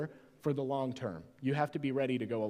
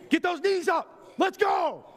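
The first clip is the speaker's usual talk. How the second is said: aerobics instructor; 13 semitones higher than usual. Acted. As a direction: pump them up like a workout instructor.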